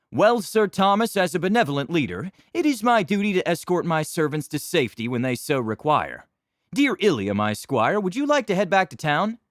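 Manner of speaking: high, loud, grand noble speech; pompous knight addressing squire; arrogant noble voice. Acted. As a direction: make a retreat sound noble.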